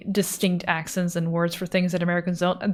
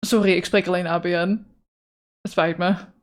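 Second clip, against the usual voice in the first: prim standard Dutch. Pretend. Mock polite standard Dutch apology.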